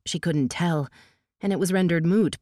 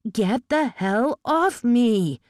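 slow, raised angry demand; 7 semitones higher, 3 dB louder, much slower than usual. Acted. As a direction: spit it out, furious. Fighting him off.

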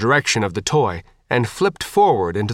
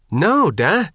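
angry; 7 semitones higher than usual. A narrator's reading. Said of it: "Faith said angrily".

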